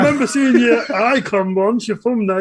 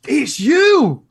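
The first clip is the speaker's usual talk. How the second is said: high-pitched mock greeting; feigned delighted recognition; 4 semitones higher than usual. Party guest to a stranger, feigned delighted recognition. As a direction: greet a stranger like a long-lost friend.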